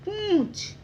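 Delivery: पूंछ high, with a long nasal "oon"; nasal pronunciation. Shown as a demonstration. Teacher blending the word for children, पूंछ high and nasal. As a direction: let पूंछ hum in the nose before "chh". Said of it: "तो लग गया पूं".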